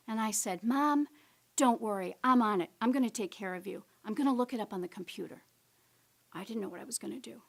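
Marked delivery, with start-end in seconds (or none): 0.6-5.4 eager reassurance. Retold or imitated. Daughter reassures frustrated mother.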